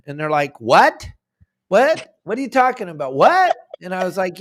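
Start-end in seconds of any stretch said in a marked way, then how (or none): 0.6-3.6 high, loud incredulous squawk; mock the Florida guys losing it in disbelief; disbelieving what. Florida anglers hearing about seven hundred fish, shrieking high in disbelief.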